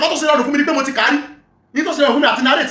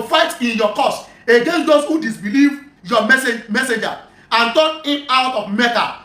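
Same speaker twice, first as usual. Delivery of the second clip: slow, measured reading of scripture; deliberate recitation of a religious text; reading aloud; much slower than usual. Acted. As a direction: read the account out slowly, word by word. Reads a hadith aloud.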